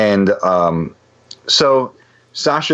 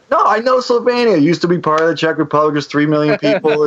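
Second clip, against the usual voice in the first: much higher, eager rattling off of facts; excited insisting; 9 semitones higher than usual. Retold or imitated. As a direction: blurt out all you know, pitched way up. Insisting he knows Slovenia.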